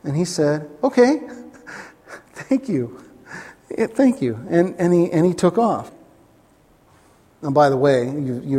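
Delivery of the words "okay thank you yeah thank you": eager thanks. Retold or imitated. Father thanks Jesus.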